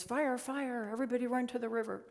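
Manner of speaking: lightly acted, hurried alarm; alarmed parrot. Parrot raising the alarm in story.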